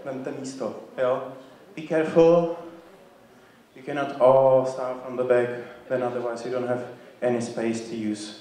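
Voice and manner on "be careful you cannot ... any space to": teacher calling a warning across the studio; projected warning. Real, not acted. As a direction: raise your voice so the back rows hear. Teacher warns class about spacing.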